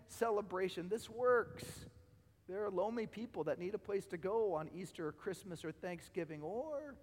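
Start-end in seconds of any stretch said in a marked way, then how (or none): 2.5-7.0 strained, fading preacher's voice; losing voice. Real, not acted. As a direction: voice giving out, worn. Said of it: "I'm losing my voice".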